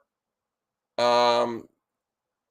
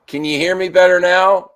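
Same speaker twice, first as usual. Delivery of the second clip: raised voice, testing the mic; loud mic check; 5 semitones higher, 10 dB louder than usual. Real, not acted. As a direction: speak up so they can hear. Mic check after volume trouble.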